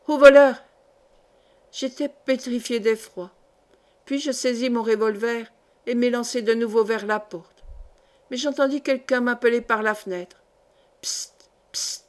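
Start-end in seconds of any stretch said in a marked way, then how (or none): 0.1-0.6 full-voiced scream of alarm, much louder; shout for help. A narrator's reading. Woman screams for help at bandits. 11.0-12.0 unvoiced secret psst; whispered hiss. A narrator's reading. Hidden man signals through window.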